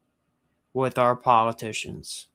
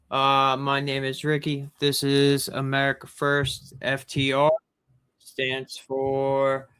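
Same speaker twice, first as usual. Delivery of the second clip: big hall echo. Real, not acted. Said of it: "Why am I echoing?".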